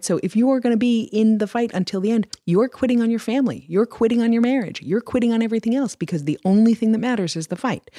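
high, impassioned rant, building; halftime pep speech. Acted. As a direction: preach it like a coach at halftime. Impassioned rant about quitting.

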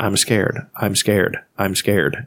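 soft, flat robotic pleading; monotone computer voice. Retold or imitated. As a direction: repeat it like a fading computer. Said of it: "and he's got a monotone".

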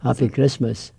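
understated, refined Edinburgh accent. Shown as a demonstration. Edinburgh Scot offering a Christmas wish, slightly refined accent. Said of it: "a tiny wee bit more refined in Edinburgh".

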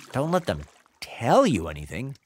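echoed back with a puzzled rise; puzzled question. Retold or imitated. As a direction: repeat it, baffled. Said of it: "What was that supposed to mean?".

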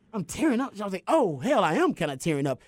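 lightly retold dawning surprise; surprised realization. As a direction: realize it mid-sentence. Retold self realizing he cries.

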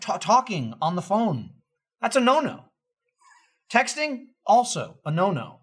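Jeff Goldblum. Retold or imitated. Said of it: "And he's just like".

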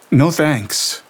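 put-on high, tense young woman's voice reliving horror; Lena shaken. A narrator's reading. Lena telling Gabriel what she felt, shaken and tense. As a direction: voice Lena trembling through the vision.

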